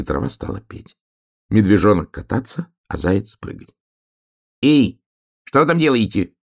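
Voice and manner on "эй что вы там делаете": high, loud hail from the hill; calling out. A narrator's reading. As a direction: shout down to the meadow. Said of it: "крикнул с холма ёжик". (высокий громкий оклик с холма)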